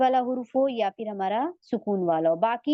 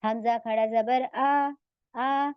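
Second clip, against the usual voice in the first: slow recitation demo; much slower than usual. Shown as a demonstration. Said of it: "इसमें हुर्फ मद हमारा अलिफ खड़ा जबर ये है ना".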